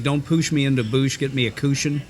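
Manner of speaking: light Indiana hillbilly twang on poosh and boosh; mock the old Indiana hillbilly way of talking; a hint of southern Indiana hillbilly; southern Indiana hillbilly accent. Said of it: "terrible hillbilly accent".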